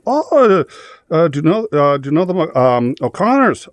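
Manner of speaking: high stage-Irish questioning, warm and nosy; Irish cop. Retold or imitated. The cop asks about mutual friends, in a high Irish voice. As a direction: lean in with a chatty Irish lilt.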